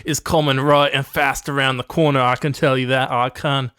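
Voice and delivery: put-on slipping into a cockney accent; hint of cockney. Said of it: "Went a little cockney there".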